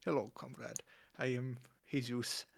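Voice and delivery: lightly voiced mock Russian accent. Podcaster joining the comrade game, mock Russian accent. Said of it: "could say in a Russian accent".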